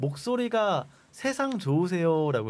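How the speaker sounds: ordinary talk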